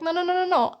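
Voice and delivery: lightly acted, insistent correction; mock protest. Goddess correcting her devotee on the title, mock protest.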